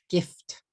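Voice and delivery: "Gift" as one short beat ending on ft; English GIFT, no vowel after f or t; one-syllable English. Shown as a demonstration. Teacher confirming the count, one-syllable English. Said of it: "Gift is one syllable".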